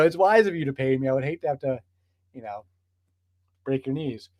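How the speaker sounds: a lightly voiced mafia heavy, casual and threatening; hint of a mob enforcer making a friendly threat; mafia extortionist. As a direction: play a smooth extortionist leaning on a shop owner. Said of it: "like she's a mafia extortionist being like".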